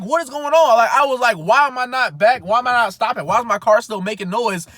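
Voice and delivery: high, loud rapid questions; frantic confusion. Retold or imitated. Driver in a rolling car, frantic and loud. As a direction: panic as the car keeps going.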